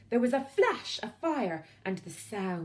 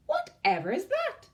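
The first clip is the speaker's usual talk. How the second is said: high, louder alarmed question; startled witch; 14 semitones higher, 5 dB louder than usual. Acted. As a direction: jump awake and ask. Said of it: "she said".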